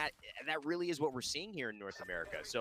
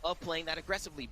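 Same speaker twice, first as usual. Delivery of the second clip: hyped-up caster call, higher and louder; excited; 8 semitones higher, 4 dB louder than usual. Real, not acted. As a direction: ride the energy of the play.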